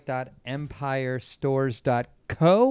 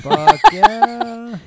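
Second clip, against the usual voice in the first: excited cheer; 9 semitones higher, 11 dB louder than usual. Real, not acted.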